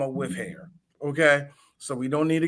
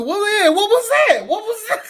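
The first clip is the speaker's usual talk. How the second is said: laughing disbelief; 6 dB louder than usual. Real, not acted.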